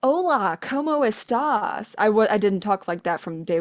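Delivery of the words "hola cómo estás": put-on Hola, ¿cómo estás? said slowly, in an English-speaking learner's American accent; a beginner's gringo Spanish, slow. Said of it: "I wasn't saying".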